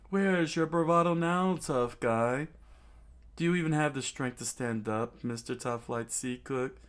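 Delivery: lightly acted gloating; gloating villain taunt. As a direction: taunt a beaten foe with glee. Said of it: "He laughed with Nami's, uh, face".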